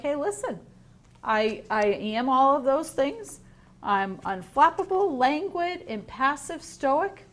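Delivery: a happy sloth boasting about himself; proud sloth. Acted. Teacher voicing the proud sloth.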